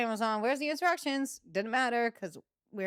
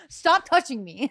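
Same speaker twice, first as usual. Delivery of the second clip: slow mock protest; 5 semitones higher, 7 dB louder than usual. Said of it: "he was like".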